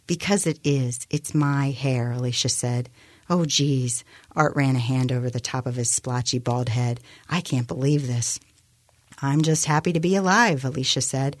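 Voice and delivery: measured novel reading; story narration. A narrator's reading. Author reading her novel to a radio audience, measured narration. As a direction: read the scene out evenly as a narrator.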